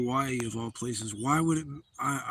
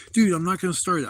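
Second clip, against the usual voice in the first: exasperated protest; 4 semitones higher, 6 dB louder than usual. Retold or imitated. Reassuring panicking crowd.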